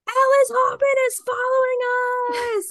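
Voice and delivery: giddy all-caps shriek; ecstatic shriek. Retold or imitated. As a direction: read the text like the best news ever. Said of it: "and it's just, like".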